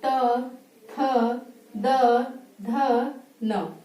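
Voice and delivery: त थ द ध न said with the tongue on the teeth; teacher modelling dental sounds; 1 dental letter demo. Shown as a demonstration. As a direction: tap the teeth with each sound. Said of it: "बोल के देखिए".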